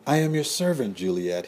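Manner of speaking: high, pleading lover's voice. A narrator's reading. The lover pleads with Juliet to believe him. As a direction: beg her, voice lifted high. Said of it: "he said with pleading eyes".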